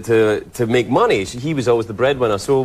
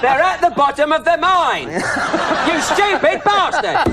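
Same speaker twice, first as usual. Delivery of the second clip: Michael Caine as Lassie; 13 semitones higher than usual. Retold or imitated. Host hears the guest mock Michael Caine, high and laughing. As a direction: ham up a Michael Caine line through laughter. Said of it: "he could play Lassie".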